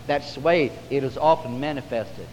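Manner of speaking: ordinary talk, nothing marked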